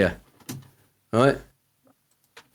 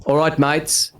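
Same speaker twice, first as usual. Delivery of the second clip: put-on Aussie greeting, a touch higher; Aussie accent; 4 semitones higher, slower than usual. Shown as a demonstration. Guest warming up for his useless fact, mock Aussie accent. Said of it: "'cause you say mate a lot".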